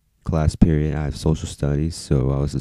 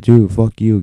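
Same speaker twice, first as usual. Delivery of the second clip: retold angry outburst; 5 semitones higher, 6 dB louder, slower than usual. Retold quarrel with security guard.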